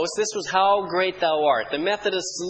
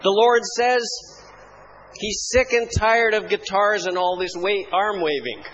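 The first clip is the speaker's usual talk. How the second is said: mock prophecy. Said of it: "gave this prophecy".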